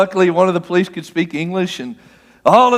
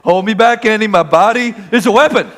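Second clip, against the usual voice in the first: a lightly voiced bragging deputy; mock bravado, half-joking; Barney Fife; 3 semitones higher than usual. Friend pictured as a bragging deputy holding back from a fight, mock bravado. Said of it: "Barney Fife thing".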